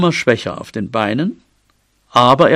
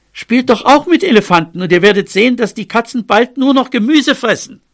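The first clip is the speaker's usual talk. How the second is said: higher-pitched little mouse standing up for her friend; defiant mouse; 4 semitones higher than usual. Acted. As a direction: argue back eagerly in a raised voice. (trotzig, mit heller Mäusestimme)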